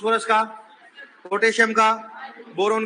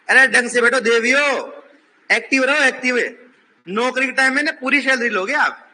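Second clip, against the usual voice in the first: raised, higher voice telling them to sit up; scolding the class; 4 semitones higher than usual. Real, not acted. Teacher scolding slouching girls.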